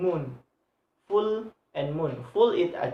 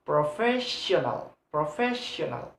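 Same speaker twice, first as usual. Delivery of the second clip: "Professional" with a lengthened FES; stress on FES. Shown as a demonstration. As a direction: linger on the second syllable, pro-FES-sional. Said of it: "first have a stress".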